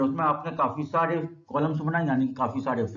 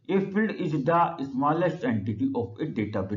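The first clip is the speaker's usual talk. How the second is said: slow dictation; much slower than usual. Shown as a demonstration. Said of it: "teacher dictating a definition".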